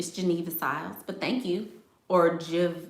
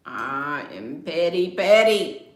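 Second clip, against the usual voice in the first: laughing admission; 6 dB louder, slower than usual. Real, not acted. Laughing admission of being petty.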